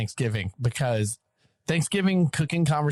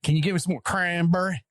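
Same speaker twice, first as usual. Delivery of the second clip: put-on higher-pitched child asking Daddy for more; kid's polite request, pitched up; imitated daughter; 6 semitones higher than usual. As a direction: lightly mimic a daughter echoing her grandmother's accent. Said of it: "says it exactly like my mom".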